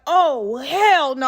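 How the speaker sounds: high, indignant refusal; going off. Retold or imitated. Patient refusing to stay six days, going off. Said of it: "I started going off".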